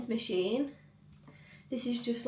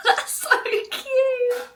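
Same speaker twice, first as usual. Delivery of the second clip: high squealing laugh, then a slow, much higher "so cute"; delighted laugh; 14 semitones higher, 6 dB louder, much slower than usual. Real, not acted. Delighted laughing to viewers about Dan being recognised. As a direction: melt into giggles over sweet news.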